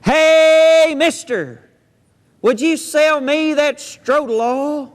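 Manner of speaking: small pig yelling up to a stranger; hollering pig. Acted. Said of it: "And he hollers".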